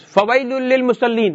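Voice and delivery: quick, lifted chant of فويل للمصلين; quranic recitation. Shown as a demonstration. Teacher reciting the verse to the class in a quick melodic chant. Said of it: "Look at this".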